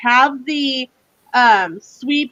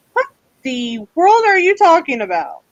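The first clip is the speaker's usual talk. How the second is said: higher, exaggerated puzzled reaction; retold bafflement; 4 semitones higher than usual. Wife reacting to Sam's new lingo after New York trainings, mock bafflement. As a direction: act out bewildered disbelief. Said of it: "and I'm like".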